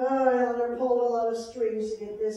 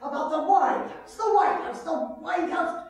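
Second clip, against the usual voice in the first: fed up; 2 semitones higher than usual. Acted. Angry phone call with boss.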